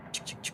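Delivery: clicky mouth noise of a locked door; imitated lock rattle. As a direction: tick out a stuck lock.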